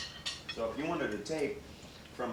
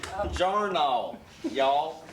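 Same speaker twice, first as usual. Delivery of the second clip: put-on Italian accent; 4 semitones higher, 7 dB louder, much slower than usual. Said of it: "my best Italian accent on here".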